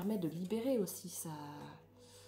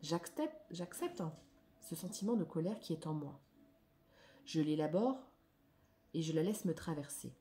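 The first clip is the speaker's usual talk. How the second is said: declamatory reading. Acted. Reads card text aloud.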